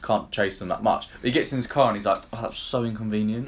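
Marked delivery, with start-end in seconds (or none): 2.3-3.5 understated, offhand mock complaint; mildly put out. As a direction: imitate a father barely bothered by disaster. Acts out father's mild annoyance.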